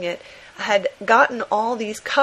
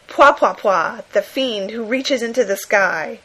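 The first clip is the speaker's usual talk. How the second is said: louder, excited announcer read of the cover title; breathless comic-book read; 4 dB louder, slower than usual. Retold or imitated. Podcaster reading a monster comic cover, excited. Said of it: "completely breathless style".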